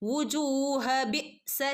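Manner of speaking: slow വുജൂഹ ബിഅ്സ run together; joined recitation. Shown as a demonstration. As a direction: join വുജൂഹ into ബിഅ്സ without stopping. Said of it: "കൂട്ടിച്ചേർത്ത് ഓതിപ്പോവുകയും ചെയ്യാം". (കൂട്ടിച്ചേർത്ത് ഓതുക)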